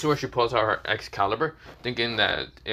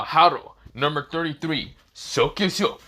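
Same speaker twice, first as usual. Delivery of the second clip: raised, higher chant of the spell; spell incantation; 5 semitones higher, 3 dB louder than usual. Acted. Issei unleashing a spell on the angels, raised chant. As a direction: call the spell out like a battle cry.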